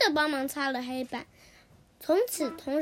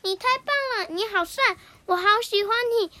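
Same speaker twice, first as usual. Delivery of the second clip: higher, louder, rushed gushing; happy praise; 6 semitones higher, 6 dB louder, faster than usual. Acted. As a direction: gush with delight. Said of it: "高兴地对模仿王说".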